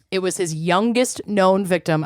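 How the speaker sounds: about to sneeze; fighting off a sneeze; holding back sneeze. Real, not acted. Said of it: "I'm about to sneeze".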